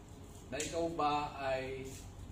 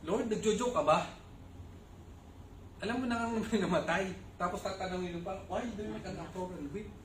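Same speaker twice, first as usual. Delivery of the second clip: incredulous mock question; 4 semitones higher, faster than usual. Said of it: "Alam niyo yun, parang".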